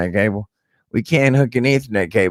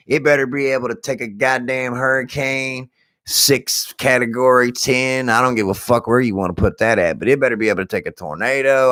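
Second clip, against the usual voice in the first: higher-pitched, emphatic demand; retold demanding rant; 6 semitones higher than usual. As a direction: lay down outrageous demands, pitch pushed up. Retold rant to satellite company.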